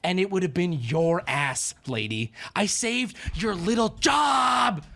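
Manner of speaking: slow, indignant rant that ends in a shout; retold anger. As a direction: scold her as the one who saved her job. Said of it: "I was so mad too".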